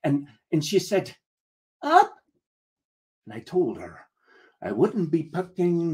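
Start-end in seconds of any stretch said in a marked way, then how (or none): 1.8-2.1 put-on tiny high-pitched child's question; small girl. Small girl asking the captain to pick her up, high child voice. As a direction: ask it high, like a little kid. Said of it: "the small girl held up her hands".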